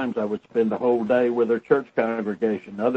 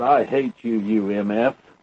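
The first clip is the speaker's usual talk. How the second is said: put-on big, deep, reverberating voice, much slower. Retelling what a man said after suddenly standing up, in a big, deep, reverberating voice. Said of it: "in a big, deep, rever- reverberating voice".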